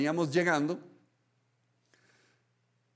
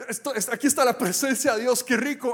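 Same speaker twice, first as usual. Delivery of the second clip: delighted prayer; 5 semitones higher than usual. Pretend. Believer resting in God's presence, blissful and sing-song. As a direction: savour every word, almost singing.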